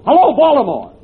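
hailing Baltimore on an early phone; calling into the telephone. Acted. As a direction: call out to Baltimore down the wire. Shouting into the first telephone.

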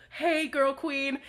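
slow, drawn-out hello; sassy ghost greeting. Acted. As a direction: stretch it out as a mock greeting. Voices Force Ghosts greeting Rey.

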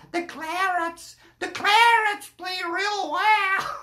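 drawn-out, lightly mocked American accent; imitated American accent. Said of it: "when you hear 'em talking like".

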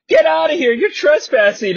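hammed-up order to leave; mock angry shout. Wife throwing intruders out of her house, mock shouting. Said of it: "Beth's like".

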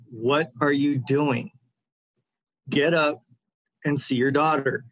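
mildly stern imitation of a father; insistent retold order. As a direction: repeat the order deliberately, with pauses.

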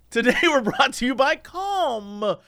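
soothing Calm voice. Shown as a demonstration. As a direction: say Calm like a meditation app. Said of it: "You're doing it".

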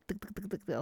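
rapid mouthed ticking noises, quietly; improvised sound effect. Shown as a demonstration. Podcaster mimics chiropractor's work for listeners, improvised sound effect. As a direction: make a quick weird ticking noise. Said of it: "make some weird sound effect".

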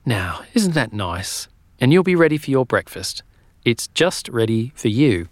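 lightly voiced kind Missus Fox; kindly landlady. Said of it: "she smiled and said".

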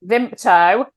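Vimto as two beats, "Vimp-toe"; local pronunciation. Shown as a demonstration. Host repeating the local word for listeners, Vimto as "Vimp-toe". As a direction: say Vimto with a p before the t. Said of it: "although we all pronounce it".

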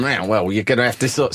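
light Brooklyn accent impression; lightly voiced Brooklyn accent. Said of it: "I'm doing my Brooklyn voice again".

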